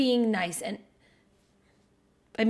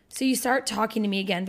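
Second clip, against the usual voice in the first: normal talking voice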